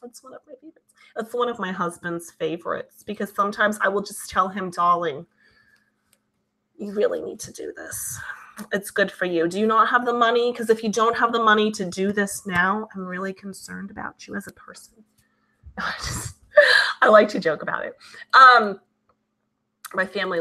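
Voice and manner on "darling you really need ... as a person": lightly put-on Jewish accent; a touch of mock Jewish-mother concern; comic Jewish accent. Wife tells husband to do this, in playful Jewish accent. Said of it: "my Jew accent".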